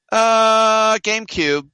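high, loud deadpan mock executive; hammed-up company spokesman voice; mock Nintendo exec. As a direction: play the smug company answering. Nintendo voiced in retold exchange.

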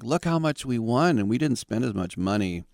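lightly mocking boast; mock bragging. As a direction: crow it like a bragging fan. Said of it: "when A's fans would brag".

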